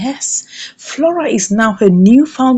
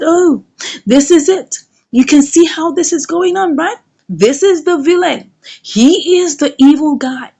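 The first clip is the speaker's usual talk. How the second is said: mildly forceful, slightly raised pitch; strong retort; 4 semitones higher than usual. Retold or imitated. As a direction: retell it as a firm accusation. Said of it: "looked at her strongly and said".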